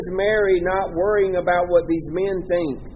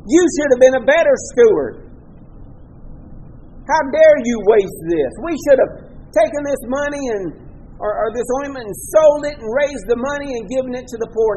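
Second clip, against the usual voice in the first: retold scolding; 2 semitones higher than usual. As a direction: scold her like an indignant critic. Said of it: "And they began scolding her".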